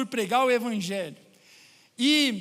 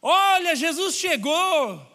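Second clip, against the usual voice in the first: loud, higher-pitched mock street cry; imitated shouting; 4 semitones higher, 4 dB louder than usual. Possessed woman heckling Paulo and Silas, imitated shouting. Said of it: "começa a gritar".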